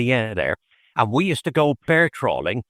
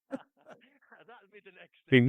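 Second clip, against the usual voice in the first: slow, breathy laugh through the words; 8 semitones higher, 5 dB quieter, much slower than usual. Real, not acted. Joking with the host about a family tartan, laughing. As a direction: laugh it out slowly, amused.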